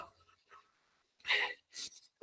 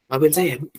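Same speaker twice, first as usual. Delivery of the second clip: tearful apology; 4 semitones lower, 8 dB quieter than usual. Shown as a demonstration. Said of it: "Dan antum nangis".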